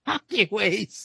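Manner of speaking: robotic voice. Retold or imitated. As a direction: imitate a cheap robot voice. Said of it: "robotic, like, voices".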